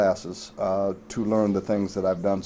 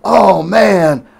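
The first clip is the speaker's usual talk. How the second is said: Ali impression; 10 semitones higher, 11 dB louder, much slower than usual. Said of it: "and he said".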